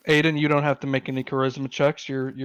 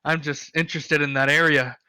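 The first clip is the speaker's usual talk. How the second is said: higher, louder eager dwarf; the dwarf asks the half orc about the Badlands, higher and keen; 4 semitones higher, 5 dB louder than usual. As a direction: perk up like a curious dwarf. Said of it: "And dwarf goes".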